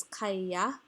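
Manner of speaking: "kaya" with the y held double; "kaya" with a doubled middle consonant; geminated Y. Shown as a demonstration. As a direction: close the first syllable of "kaya" on a long y. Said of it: "the Y is geminated".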